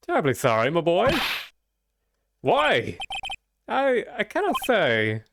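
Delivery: an impatient eccentric lawyer, lightly voiced; Mad Hatter voice. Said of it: "slipping into the Mad Hatter voice".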